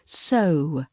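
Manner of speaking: "so" with a gliding British O; O diphthong. Shown as a demonstration. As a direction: let the vowel in "so" move from uh towards oo. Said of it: "the diphthong sound of O".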